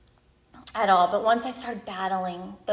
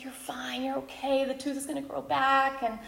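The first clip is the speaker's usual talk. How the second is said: soothing mother; 4 semitones higher than usual. Retold or imitated. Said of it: "I just want to be like".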